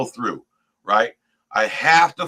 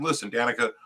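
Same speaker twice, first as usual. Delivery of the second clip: calm, lower and softer; 3 semitones lower, 7 dB quieter, faster than usual. Retold or imitated. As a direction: keep it low and even with your child. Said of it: "I said it in a calm voice".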